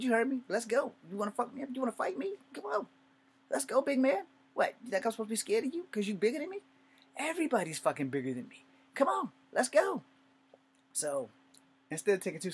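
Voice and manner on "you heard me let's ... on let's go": much higher, louder yelling challenge; angry dare shout. Retold or imitated. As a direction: yell at the big man to come fight. Shouting a dare at bigger man.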